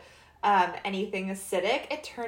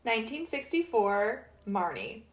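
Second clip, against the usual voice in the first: odd announcing delivery; 5 semitones higher than usual. Real, not acted. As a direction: start very high, drop to normal for the title. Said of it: "I don't know why I said it like that".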